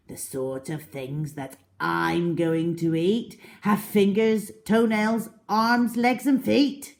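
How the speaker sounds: building gloat. Acted. Crocodile boasts of eating children.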